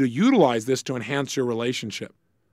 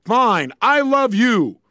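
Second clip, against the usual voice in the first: curt, louder, reluctant "I love you"; grudging I love you; 8 semitones higher, 6 dB louder, much slower than usual. Acted. Annoyed spouse forced to say I love you, grudging. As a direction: toss it off grudgingly, higher and louder. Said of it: "I doubt seriously if that's gonna be the perfect tonality".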